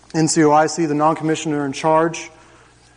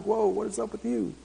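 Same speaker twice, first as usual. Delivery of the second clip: mock amazement; 7 semitones higher, 9 dB quieter than usual. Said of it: "And I'm like".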